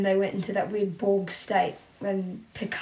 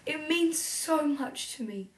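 put-on slow, higher, softer old man voice; lightly voiced frail old man; Picard old man voice; 6 semitones higher, 7 dB quieter than usual. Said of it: "do the old man voice".

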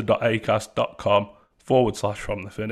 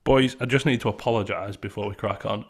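big hall echo. Real, not acted. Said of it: "I sound very echoey".

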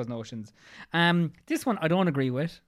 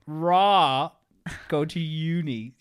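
lightly voiced posh English girl; a hint of a posh English accent; posh English girl impression; 3 semitones higher, 3 dB louder, much slower than usual. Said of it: "my posh English girl impression".

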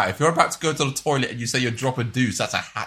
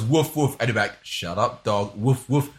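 mock dog barks; 4 semitones lower, 4 dB quieter than usual. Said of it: "and he goes".

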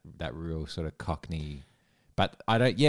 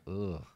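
soft cringing groan; disgusted groan; 6 dB quieter than usual. Retold or imitated. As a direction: groan quietly at something off. Reacting to bad accent.

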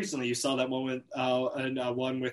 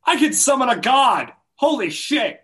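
excited; 8 semitones higher, 5 dB louder than usual. Real, not acted. Excited roll result.

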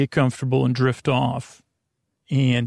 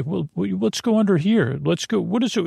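higher, lightly acted creature chatter; light, higher-pitched character voice; lightly voiced animal friends; 5 semitones higher than usual. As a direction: pitch up as a hint of two animal pals. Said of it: "and they say".

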